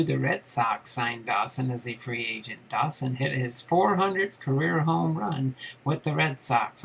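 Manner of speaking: measured biography read-aloud. Real, not acted. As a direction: read the player's career story aloud to viewers.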